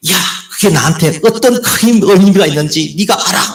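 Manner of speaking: put-on high angry yell. Retelling a drama scene where a girlfriend yells at her boyfriend, imitating a woman yelling. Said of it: "이 여자친구가 이렇게 큰 소리를 치더라고요".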